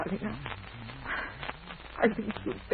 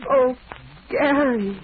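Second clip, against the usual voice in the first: louder, overjoyed cry of his name; joyful cry; 5 semitones higher, 7 dB louder, slower than usual. Acted. Woman answering a marriage proposal, overjoyed cry. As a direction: burst out with delight.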